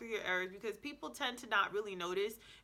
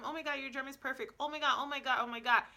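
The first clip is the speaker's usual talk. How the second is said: higher-pitched mock fangirling praise; imitated gushing; 5 semitones higher, faster than usual. Imitating people who praise her German, gushing. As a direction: gush as if imitating impressed admirers.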